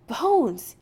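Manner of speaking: breathless call after running; calling out, winded from running; out of breath. Acted. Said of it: "half out of breath from running".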